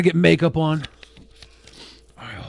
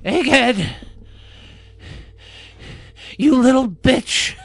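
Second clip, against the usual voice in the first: wrestling promo voice; 5 semitones higher than usual. Pretend. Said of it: "gonna give you a good promo".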